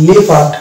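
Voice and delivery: লেপার্ড said slowly, le-pard with no o; slow teacher demo of লেপার্ড; correct pronunciation. Shown as a demonstration. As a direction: draw out লেপার্ড carefully. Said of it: "উচ্চারণ করতে হবে".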